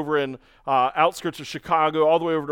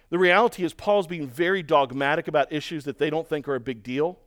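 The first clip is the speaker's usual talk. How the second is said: ordinary talk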